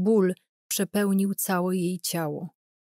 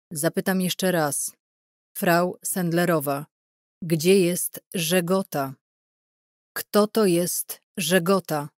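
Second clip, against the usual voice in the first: stern interrogator; 3 dB louder, slower than usual. Acted. Interrogator questions the tortured Irena.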